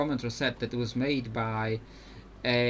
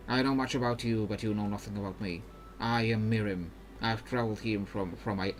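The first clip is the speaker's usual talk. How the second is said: put-on Ionian accent gone astray; botched Ionian accent; 4 dB quieter than usual. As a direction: attempt an Ionian accent and miss it. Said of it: "that was not a Ionian accent".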